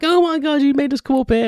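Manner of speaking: high, loud exasperated mum voice; mock outrage as mum scolds me; mum blaming me. Mum scolding son for wasted trip, shrill exasperated imitation. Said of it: "my mum instantly blamed me".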